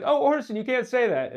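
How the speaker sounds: high, loud mock protest; Henry Jaglom. Imagined lunch companion chiding Orson, high mock protest. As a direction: scold in a put-on high voice. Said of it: "then Henry Jaglom's like".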